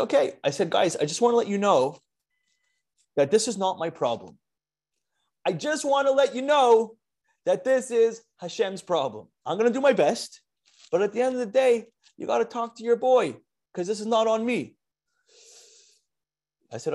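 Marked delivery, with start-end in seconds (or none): 0.0-0.4 okay tossed off high; higher, upbeat okay; brisk okay. Retold or imitated. Retold reply to rabbis. 0.7-14.8 much higher, pleading exasperation; high, animated mock plea to the rabbis; worked-up retelling. Retold speech to the rabbis.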